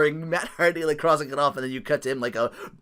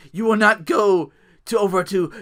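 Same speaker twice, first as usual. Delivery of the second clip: higher, louder, very slow command; pompous decree; 7 semitones higher, 11 dB louder, much slower than usual. Retold or imitated. Mimicking Matt Hardy ordering his brother, slow pompous decree. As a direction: forbid it like a mad lord.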